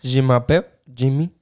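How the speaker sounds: lightly put-on French accent. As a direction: say it as a mock Frenchman. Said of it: "Do French".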